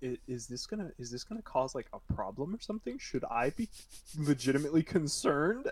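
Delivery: soft, hesitant inner voice; retold worried thought. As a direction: wonder it aloud under your breath, unsure. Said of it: "I was legitimately terrified 'cause I was like".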